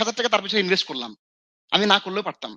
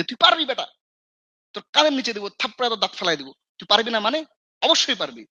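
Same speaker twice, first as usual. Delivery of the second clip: encouraging scold; 3 semitones higher than usual. Retold or imitated. Mentor scolding a doubting student into confidence, mock stern. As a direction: bark encouragement like a tough mentor. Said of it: "এরকম ধমক দিয়ে তাকे বলার".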